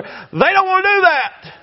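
high, slow mocking whine; a high, drawn-out mock of the preachers; mock whiny voice. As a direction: sneer it like a lazy preacher.

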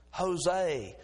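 Jose said ho-say with an H; Jose, J sounded as H, ho-say; Spanish J. Shown as a demonstration. The kind man giving the Spanish name correctly. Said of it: "those J's have an H sound".

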